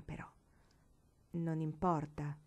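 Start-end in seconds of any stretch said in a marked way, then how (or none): 1.3-2.4 slow, low, tender reassurance; gentle. Acted. Marigold forgiving Paola, slow and gentle. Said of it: "disse dolcemente".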